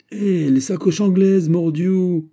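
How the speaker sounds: high, loud, exultant outburst; radiant exclamation. A narrator's reading. D'Artagnan triumphant to his baffled servant, radiant exclamation. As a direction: cry it out in sheer jubilation. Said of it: "tout radieux, tout transfiguré".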